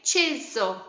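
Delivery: "chisel" in two separate beats; syllable counting. Shown as a demonstration. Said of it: "Two syllables".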